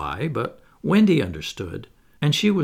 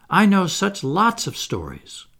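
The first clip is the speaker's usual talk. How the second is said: higher, eager coaxing; entreating; 6 semitones higher, 4 dB louder than usual. A narrator's reading. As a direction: tempt him to stay, pleading. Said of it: "she entreated".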